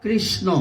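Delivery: কৃষ্ণ said as kisno, dropping the r; wrong pronunciation. Shown as a demonstration. Preacher shows the wrong way to say the name, kisno. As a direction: mispronounce কৃষ্ণ without the ri sound. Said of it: "কৃষ্ণ না".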